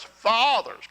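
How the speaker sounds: high, loud call to read together; leading scripture read-along. Real, not acted. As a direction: call the men into the verse. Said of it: "read along with me".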